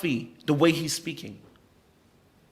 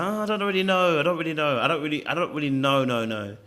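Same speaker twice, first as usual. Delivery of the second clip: unsure, noncommittal. Retold or imitated. Imitating himself dodging his girlfriend's question, mildly noncommittal. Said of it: "I wasn't a hundred percent sure".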